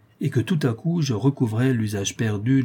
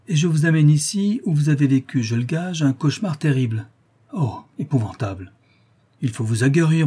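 amused detective; 4 semitones higher than usual. Acted. Detective's voice chiding the reporter.

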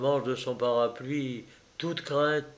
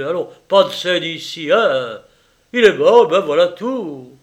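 louder, higher brusque dismissal; harsh shout; 4 semitones higher, 9 dB louder than usual. Acted. Assistant surgeon shoving the grieving mother out, harsh shout. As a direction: shut down her grief coldly. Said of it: "cria-t-il".

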